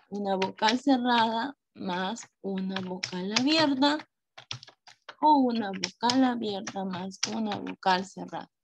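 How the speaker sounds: measured, word-by-word dictation; dictating. Real, not acted. Teacher rewriting the diphthong rule for pupils, dictating. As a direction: spell the rule out in separated chunks, pausing between them. Writing the rule out while saying it.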